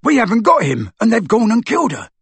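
loud, high distress; panicked wail. Acted. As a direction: wail over the loss. Amycus panicking.

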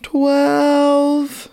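counting reps while straining; strained counting, pitch climbing up; doing push ups. Real, not acted. Damn it.

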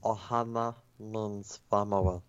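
a creepy alien voice; creepy little alien rasp; creepy Killer Stitch voice. Retold or imitated. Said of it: "all of my friends hate when I do that voice".

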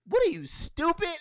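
high, scornful what are you stupid; incredulous mock put-down. Friends scoffing at him, high mocking disbelief.

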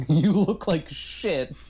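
mock deadpan insult, very slow. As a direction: drag it out to his face. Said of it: "She says it twice to his face".

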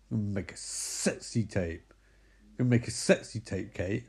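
mock-seductive low murmur; low, hushed come-on.

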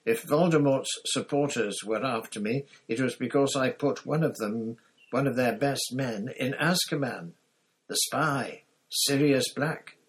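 high, loud panicky accusation; a cornered coward pointing the finger, voice up high; frightened Pettigrew. A narrator's reading. Pettigrew accusing Black before Lupin, high and frightened.

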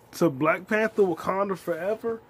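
overwhelmed fan yelling about the end scene; hyped. Real, not acted. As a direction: shout it out in disbelief. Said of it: "hyped about the scene".

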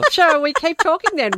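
high-pitched question through real laughter; laughing. Real, not acted. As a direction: ask it while cracking up. Co-host laughing about the missed break.

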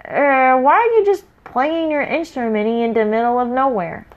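puzzled dim troll; confused troll. Acted. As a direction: scratch your head as a dim troll. Confused big troll asks.

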